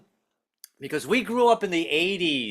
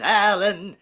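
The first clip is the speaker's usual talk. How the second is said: higher, slow sermonising Baptist preacher; lightly voiced preaching grandfather; 5 semitones higher, slower than usual. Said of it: "give me personal sermons".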